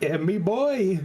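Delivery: put-on high-pitched send-up of a botched German accent; mock German accent. Friend mocking another player's improvised German, exaggerated accent. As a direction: tease with a wobbly fake German accent. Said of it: "the accent you were giving on the fly".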